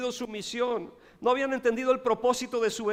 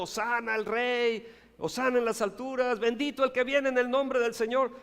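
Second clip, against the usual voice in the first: lifted, slightly louder hosanna call; crowd cheering; 4 semitones higher, 3 dB louder than usual. Acted. Preacher voicing the crowd hailing Jesus, a mild joyful call. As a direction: raise the voice like a joyful crowd praising.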